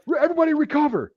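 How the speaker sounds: high, quick called order; imitated command call. Instructors ending the platoon's punishment, imitated command.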